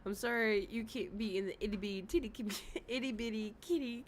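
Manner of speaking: laughing read. Retold or imitated. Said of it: "Shy Cat said".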